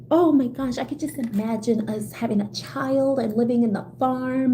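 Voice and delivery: mocking a smitten daydreamer; put-on dreamy daydreamer voice. Imagining a future with a crush, silly put-on voice. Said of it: "I don't know why I do that voice".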